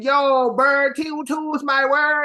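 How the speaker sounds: put-on lightly garbled Toronto accent parody; bad mock Toronto accent. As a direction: slur through a badly faked Toronto accent. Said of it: "doing a bad version of this accent".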